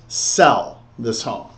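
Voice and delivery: "sell" drawn out slowly; slow, weighty "sell", then drop on "this home"; stress on SELL. Shown as a demonstration. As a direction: underline "sell" with a long, firm beat.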